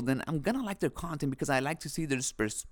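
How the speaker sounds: talking with dry lips. Real, not acted. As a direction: lips sticking, dry mouth. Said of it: "my lips are all dry".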